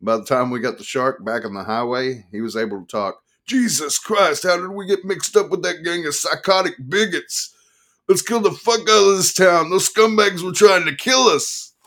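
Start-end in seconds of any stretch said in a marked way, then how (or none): 3.5-11.7 loud, much higher furious ranting; paranoid rant. A narrator's reading. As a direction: rage at the town in panic. Attorney ranting after escape.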